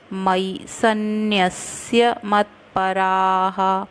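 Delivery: careful Sanskrit chant; slow verse recitation. Shown as a demonstration. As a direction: recite the line slowly, syllable by syllable. Recites verse line slowly.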